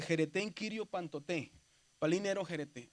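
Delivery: "jerete en kirio pantoté" read out as one phrase; Greek phrase demo. Shown as a demonstration. Teacher reads the Greek to the class, demonstrating pronunciation. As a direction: join up "palín, ero, jerete" after the slow version. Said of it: "la palabra en griego dice".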